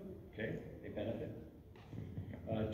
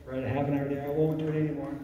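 a hint of a pleading child, higher; lightly voiced kid begging for more screen time; bargaining child; 4 semitones higher, 3 dB louder, much faster than usual. Parent imitating a bargaining child, mildly pleading. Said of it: "bargain with you".

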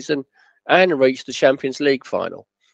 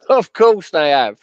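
slow, louder sarcastic jab; 5 semitones higher, 5 dB louder, slower than usual. Retold or imitated. Chairman mocking his manager's Barcelona claim, slow sarcastic. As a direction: lay the sarcasm on, not believing a word. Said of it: "Jim says sarcastically".

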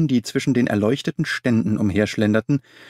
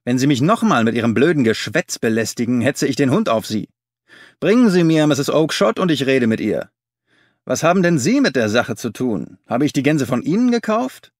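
angry; 3 semitones higher, 4 dB louder than usual. Acted. Angry dealer drives man away.

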